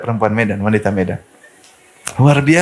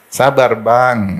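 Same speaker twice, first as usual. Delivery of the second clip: "Sabar, Bang" drawn out very slowly and gently; calm your husband with "Sabar, Bang"; soft, slow "Sabar, Bang"; much slower than usual. Shown as a demonstration. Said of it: "ini harus halus ngomongnya". ("Sabar, Bang" pelan dan lembut)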